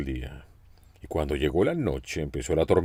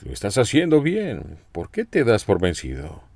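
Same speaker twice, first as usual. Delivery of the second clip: high, fond coaxing; affectionate encouragement; 4 semitones higher than usual. Retold or imitated. Jesus encouraging a sinking Peter, with fond warmth. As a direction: gently cheer him on, don't scold. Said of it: "es una expresión de cariño".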